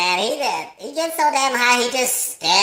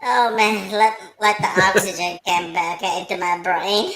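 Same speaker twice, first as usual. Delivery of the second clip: out of breath from laughing; 4 semitones lower, 3 dB quieter than usual. Real, not acted. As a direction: catch your breath after a laughing fit. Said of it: "I can't breathe".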